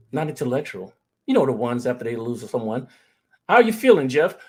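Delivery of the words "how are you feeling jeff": concerned friend. Retold or imitated. Mock concerned friend asking.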